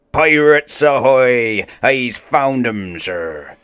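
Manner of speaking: lookout's call. Acted. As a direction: bellow it from the crow's nest. Lookout spots the pirates.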